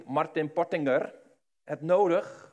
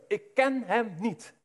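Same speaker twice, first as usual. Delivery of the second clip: cursing denial; 3 semitones higher, slower than usual. Acted. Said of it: "begint hij zelfs te vloeken".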